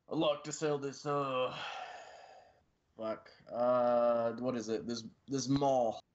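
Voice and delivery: put-on slow, gruff Cockney barbarian accent; big brute with a Cockney accent. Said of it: "your accent changed".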